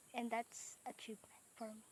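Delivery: soft, unvoiced mock-proud whisper; mock dramatic whisper. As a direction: whisper it like a fake grand triumph. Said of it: "napaka-dramatic". (pabulong na kunwaring madrama)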